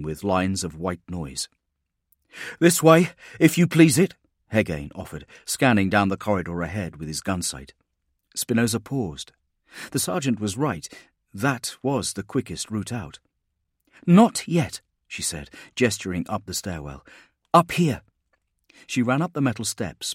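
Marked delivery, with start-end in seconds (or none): 2.6-4.1 raised, higher soldier's voice; a sergeant urging her along; gruff sergeant voice. Acted. Sergeant Hegain speaks in dialogue. 14.1-14.8 higher, louder firm refusal; commanding woman. Acted. Spinoza gives orders in dialogue. 17.5-18.0 higher, louder firm refusal; commanding woman. Acted. Spinoza gives orders in dialogue.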